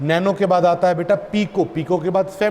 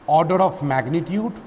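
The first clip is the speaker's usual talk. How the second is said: slow dictation; much slower than usual. Shown as a demonstration. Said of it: "dictating slowly to write down".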